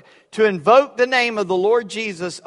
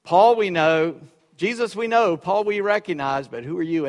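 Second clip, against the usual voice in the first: demon voice. Acted. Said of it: "uttered by a demon".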